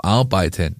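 Arbeiten set apart with deliberate weight; stress on Arbeiten. Real, not acted. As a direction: lean firmly on the word Arbeiten. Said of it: "die Betonung liegt auf".

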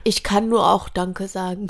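sniffly teary voice; snotty crying. Real, not acted. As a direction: speak through a runny nose. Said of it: "Ein bisschen verrotzt jetzt".

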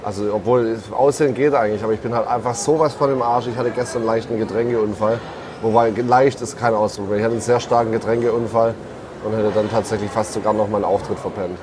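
low, tired hangover voice; hungover voice. Real, not acted. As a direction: talk through a heavy hangover. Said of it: "meiner Katerstimme". (verkaterte, müde Stimme)

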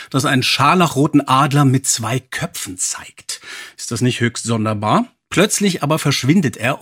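dramatic back-cover reading, lightly performed; storyteller reading a cassette blurb; blurb read aloud. Acted. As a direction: read the blurb like a mystery teaser. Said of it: "Und hier kommt der Klappentext".

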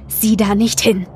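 slow, gruff command; gruff order. A narrator's reading. Boy stopping friend from looking at the body, gruff. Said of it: "sagte er barsch".

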